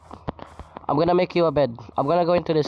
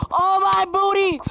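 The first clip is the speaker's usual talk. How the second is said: silly yelp; slower than usual. Real, not acted. Falling in game.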